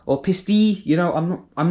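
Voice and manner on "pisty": "Pisty" with short "piss" then "tee"; "Pisty", sounded out uncertainly; tentative pronunciation. Shown as a demonstration. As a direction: try "Pisty" slowly as a last guess. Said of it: "not really sure how to pronounce".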